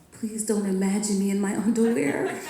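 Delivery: a hint of a pleading little boy, laughing through it; earnest child. Seven-year-old begging his mom before her speech, laughing. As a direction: beg her sincerely, like a worried kid. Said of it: "He goes".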